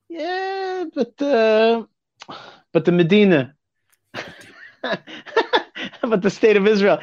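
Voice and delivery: put-on high, laughing Yiddish-accented Hasid voice. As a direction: voice the old Hasid with a Yiddish lilt. Satmar chassid voiced in story.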